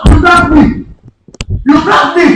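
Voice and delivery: high-pitched, heated protest; outraged protest. Real, not acted. Man furious at the prank.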